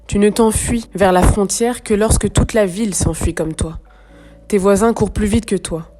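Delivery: measured, slightly projected poetry recitation; deliberate phrases set apart by pauses; poem reading. Acted. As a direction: read the verse gravely, pausing between lines. Reads the poem aloud.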